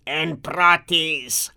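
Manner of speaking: very slow beast voice; monster voice. Acted. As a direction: let the beast weigh the words slowly. Beast answers again.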